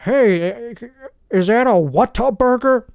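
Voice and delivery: voicing himself in Texas. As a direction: ask it brightly, all innocence. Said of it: "That's how I'm saying it".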